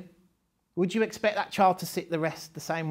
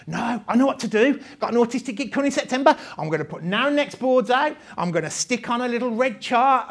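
mock know-it-all; 5 semitones higher, 4 dB louder than usual. Voicing smug society planning.

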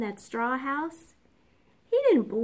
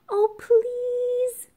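high, whiny sniffly plea; sniffing plea; 14 semitones higher, 3 dB louder than usual. A narrator's reading. Sick wolf begs the pig, high and sniffly. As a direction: beg with a runny nose. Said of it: "sniffled Big Bad".

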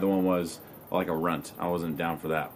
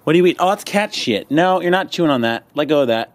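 higher, louder scolding; scolding the puppy; 5 semitones higher, 5 dB louder than usual. Real, not acted. Stopping the puppy chewing cat mess, loud scold. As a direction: snap at the pup to drop it.

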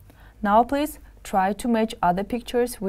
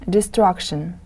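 Destruction with the stress on STRUC; teacher's de-STRUC-tion, second syllable leading. Shown as a demonstration. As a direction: model Destruction for learners, leaning on the middle syllable. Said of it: "The stress is on the second syllable".

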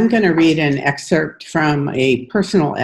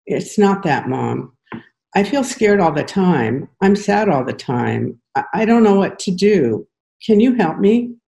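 rising, scared plea for help; desperate; 6 semitones higher than usual. A narrator's reading. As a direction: let desperation climb to the last line. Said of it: "His voice has a desperation".

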